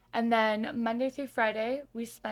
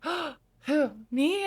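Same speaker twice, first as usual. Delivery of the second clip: higher, flustered disbelief; flustered surprise; 6 semitones higher, 5 dB louder, slower than usual. Retold or imitated. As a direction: squeak it out like you can't believe she means you. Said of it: "my heart sank".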